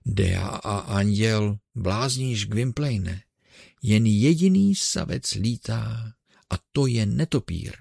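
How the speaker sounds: a touch of gruff mockery; Ursus's own voice. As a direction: back in the old man's scolding tone. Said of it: "odpověděl hlasem svým, Ursovým".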